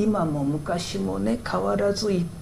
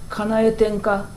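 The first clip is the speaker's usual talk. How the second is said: casual Kansai-dialect request, higher pitch; 4 semitones higher, slower than usual. Shown as a demonstration. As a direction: ask it lightly in Kansai-ben. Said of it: "なんなら関西弁で".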